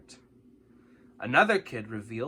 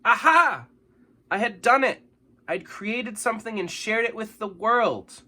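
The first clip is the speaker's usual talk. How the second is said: high, loud joyful aha; triumphant joy; 9 semitones higher, 6 dB louder than usual. A narrator's reading. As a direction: celebrate having done it. Triumph after reading poem.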